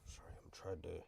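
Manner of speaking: gasping, winded speech; struggling for breath between words; wind knocked out. Real, not acted. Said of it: "I had the wind knocked out of me".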